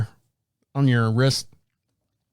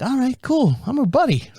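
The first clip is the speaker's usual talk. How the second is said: higher, happy-puppy self; eager puppy; 9 semitones higher than usual. Retold or imitated. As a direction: sound like an eager puppy dog. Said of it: "I'm like".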